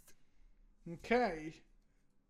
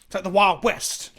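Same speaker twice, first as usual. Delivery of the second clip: slow Southern drawl on Wild West; lazy Alabama twang; Alabama accent; 5 dB louder, slower than usual. Pretend. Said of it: "Don't know why I tried to do an Al-, Alabama accent then".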